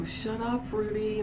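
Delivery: mock exasperation. Half-asleep owner to the cat, mildly exasperated scolding. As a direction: shush the cat in mild exasperation.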